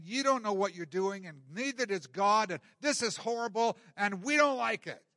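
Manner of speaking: mock accusing gripe, rising in pitch; hammed-up blaming that climbs as it goes; finger-pointing complaint. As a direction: blame everyone in an acted grumble. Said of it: "finger pointing".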